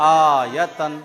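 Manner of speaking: loud, firm correction of आयतन; teacher correcting a student loudly. Shown as a demonstration. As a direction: call out the right reading loudly. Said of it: "आया नहीं".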